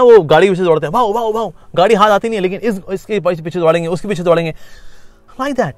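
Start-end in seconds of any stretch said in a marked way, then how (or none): 0.9-1.5 mock dog barks; imitating a barking dog. Teacher mimicking dogs chasing a car, playful barks. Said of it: "जैसे कुत्ते होते हैं ना".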